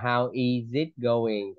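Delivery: "how is it going" with is linked into it; linked full form. Shown as a demonstration. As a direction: keep "is" as its own word, running into "it". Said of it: "thì em đọc nối ra".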